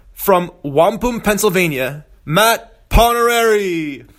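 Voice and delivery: announcer voice. Acted. Host's big guest introduction.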